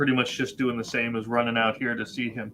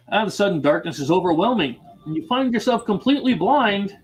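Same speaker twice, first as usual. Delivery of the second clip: louder, higher game master's scene reading; dramatic event narration; 5 semitones higher, 4 dB louder than usual. Acted. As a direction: announce the sudden event to the table. Reads event card dramatically.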